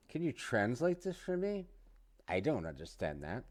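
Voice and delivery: a mock baffled plea that soars and then drops; confused request. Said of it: "I would say".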